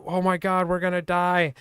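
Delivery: high-pitched mock panic; panicked friend. Friend in the storm panics to the narrator, mock panic. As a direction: squeal it like you think you'll drown. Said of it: "he started freaking out".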